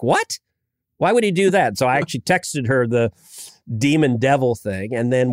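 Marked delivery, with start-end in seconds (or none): 0.0-1.8 higher-pitched mock disbelief; retold astonished daughter. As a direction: imitate a baffled twelve-year-old, pitched up. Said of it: "She's like".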